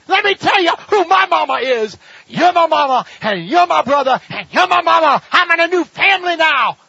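high, loud preaching cry; Jesus declaring the crowd his new family; fervent proclamation. Acted. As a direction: proclaim it with full fire.

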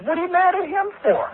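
high, mock-baffled question to a congregant; incredulous retort. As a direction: squeak out "What are you mad at him for?" in disbelief. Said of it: "I said".

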